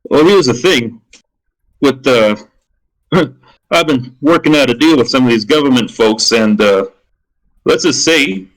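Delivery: lightly voiced rich man, halting and evasive; a hint of a wealthy schemer choosing his words; rich businessman. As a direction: hedge delicately as a rich dealmaker. Game master plays the rich businessman.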